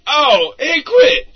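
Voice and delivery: yelp of pain. Acted. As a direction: cry out as the stick hits. Hit with the stick.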